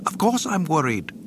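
high, fretful robot voice; fussy droid voice. Acted. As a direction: fuss like a nervous butler droid. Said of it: "C three P O fussed".

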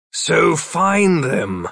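slow, stern scolding. A narrator's reading. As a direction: scold him firmly. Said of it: "Philip scolded".

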